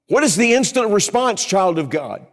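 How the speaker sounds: preacher rallying the congregation; preaching call. Acted. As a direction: call it out to the whole room.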